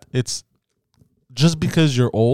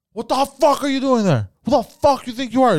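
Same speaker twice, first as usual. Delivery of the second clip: high-pitched, outraged reenacted yell; indignant challenge, pitched way up; angry confrontation; 12 semitones higher, 3 dB louder than usual. Driver confronting old man hitting his car, angry.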